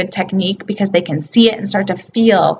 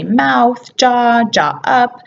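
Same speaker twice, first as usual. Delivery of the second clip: slow verbal cue; 3 semitones higher, much slower than usual. Shown as a demonstration. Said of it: "there's some verbal cues".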